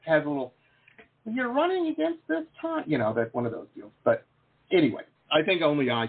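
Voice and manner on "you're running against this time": computer assistant voice. Retold or imitated. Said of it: "that's my assistant".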